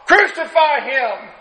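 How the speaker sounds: high-pitched mock yell from the crowd. A crowd member demanding Pilate crucify him, high mock yell. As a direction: cry it out like one voice in a mob. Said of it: "four more people holler".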